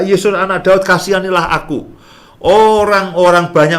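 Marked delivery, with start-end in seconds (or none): 0.0-1.9 teriakan memohon dengan nada tinggi; seruan minta tolong. Retold or imitated. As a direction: serukan dengan nada tinggi seperti orang buta yang memohon. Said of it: "dia berteriak". (berseru dengan nada tinggi)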